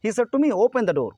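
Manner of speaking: slow, loud commanding order. Shown as a demonstration. Teacher showing students how a command sounds, slow and loud. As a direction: say it as a firm order, slowly and loudly. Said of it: "इस लहजे से अगर बोलेगा कोई इस tone में".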